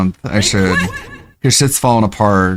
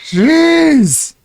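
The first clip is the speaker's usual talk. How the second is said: high, sharp exasperated cry; exasperated jeez. Real, not acted. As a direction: blurt it out in frustration. After monitor shut off.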